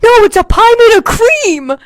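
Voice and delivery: high, loud insistent dope; mock clueless classmate. Retelling the choir boy in math class. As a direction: play the naive kid sure he's right. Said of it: "he was like".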